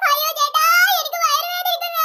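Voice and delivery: hammed-up stomach-ache whine; mock wailing. Girl faking a stomach ache to the seller, mock wail. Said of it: "Parukutty കരഞ്ഞ് നിലവിളിക്കുന്നു".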